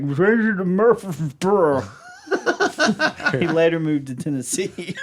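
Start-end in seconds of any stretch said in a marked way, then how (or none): 0.0-1.8 guy in the crowd. Retold or imitated. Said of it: "One guy in the back's like".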